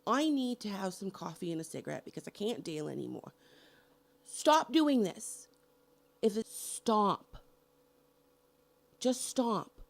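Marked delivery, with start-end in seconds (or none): 4.2-9.8 pissed-off horror fan hammering the point; exasperated, drawn-out stop; angry demand. Real, not acted. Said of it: "This is my fucking rant".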